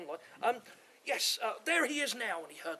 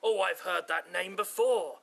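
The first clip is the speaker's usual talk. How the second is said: laughing. Acted. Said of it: "he laughed".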